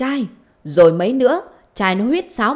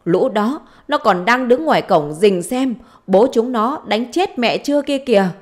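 higher, raised-voice acted grievance; indignant complaint; 3 semitones higher, 4 dB louder than usual. Mother complaining to her daughter about husband's children, indignant. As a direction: pour out accusations with rising pitch.

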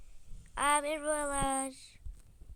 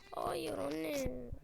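whispered no; 7 dB quieter than usual. Acted. Daughter whispering a refusal.

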